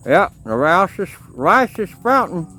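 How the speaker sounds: talking around a cigar in mouth; words muffled by a cigar. Real, not acted. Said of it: "Sorry, I got the cigar in my mouth".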